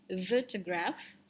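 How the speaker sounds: "Photograph" slow, with a long final graaf; long vowels shown. Shown as a demonstration. Teacher reminds class of long vowels, "Photograph" slowly stretched. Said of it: "Jangan lupa ini long vowels".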